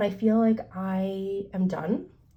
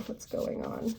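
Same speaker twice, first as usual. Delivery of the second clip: whispered; 7 dB quieter than usual. Real, not acted. Cards found out of order.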